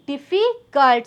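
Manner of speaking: "difficult" broken after diffi, before cult; pause between syllables. Shown as a demonstration. Teacher giving students an example of a double syllable word, "difficult" split by a pause. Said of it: "there is a little pause".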